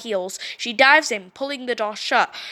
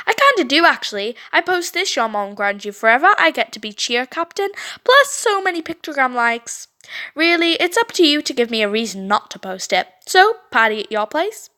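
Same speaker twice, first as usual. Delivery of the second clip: smug blackmail; 3 semitones higher than usual. Acted. Brittany blackmailing.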